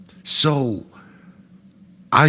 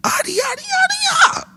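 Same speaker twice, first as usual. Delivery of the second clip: very high squeaky yada yada; mock the chatter in a squeaky voice; mocking babble; faster than usual. Comic to his friend about the band guy, mocking squeak. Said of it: "And I'm like".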